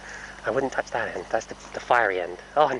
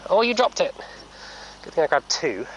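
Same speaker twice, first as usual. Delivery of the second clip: high sing-song; 6 semitones higher than usual. Real, not acted. Owner teasing the horse who dropped a treat, high sing-song. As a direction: coo in a high voice.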